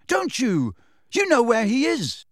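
pin him down with it; accusing shout. Acted. Harry shouting at elf.

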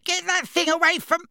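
very high frightened demand; high alarmed protest; panicked. A narrator's reading. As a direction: beg him off in panic, pitch shooting up. Backed against wall by wand.

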